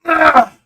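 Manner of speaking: sudden loud high cry of frustration; frustrated yell. Retold or imitated. Turning away from the dentist staff, a loud frustrated scream. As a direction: let out a burst of pent-up anger. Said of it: "I turned around and I go".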